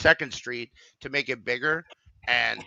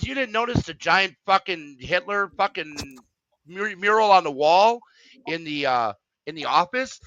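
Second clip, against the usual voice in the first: higher voice, mildly exasperated; exasperated disbelief; 5 semitones higher than usual. Retold or imitated. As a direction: scold him for missing the obvious. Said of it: "She goes".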